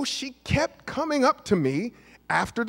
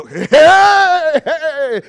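fake cheery greeting; 9 semitones higher, 10 dB louder than usual. Fake greeting to act busy.

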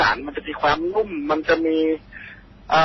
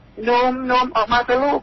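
put-on much higher, coaxing old woman's call; grandma calling; 9 semitones higher than usual. Ghostly grandmother coaxes the boy out of the circle, high and sweet. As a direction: lure the child out sweetly like a granny. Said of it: "เรียกให้ผมออกไป".

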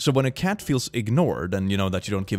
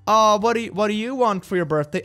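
high, eager parent voice; doting parent; 9 semitones higher than usual. Acted. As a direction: coo the question up high at a child. Voices parent asking child about birthday.

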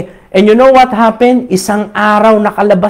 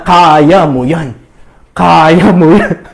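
low, slow encouraging chant; low slow mock encouragement; imagined cheering; 6 semitones lower, much slower than usual. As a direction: cheer him on, drawn out and low. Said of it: "Akala niya".

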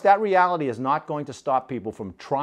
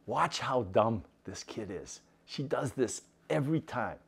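soft, smug whisper-like aside; sly aside; 8 dB quieter than usual. Acted. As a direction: murmur it to the boys with a wink. Brother winks at his friends.

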